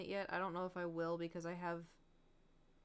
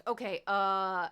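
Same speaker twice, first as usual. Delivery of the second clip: bold declaration; 5 dB louder than usual. Real, not acted. Committing to answers loudly.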